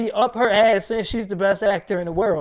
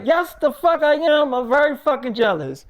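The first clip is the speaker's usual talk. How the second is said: higher, emphatic retort, easing down; indignant admission; 4 semitones higher than usual. Retold or imitated. Girlfriend admitting jealousy to boyfriend, indignant. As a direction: fire it back, lightly acting her indignation.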